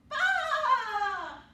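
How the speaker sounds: high loud sheep baa; sheep bleat. Acted. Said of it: "what does the sheep say".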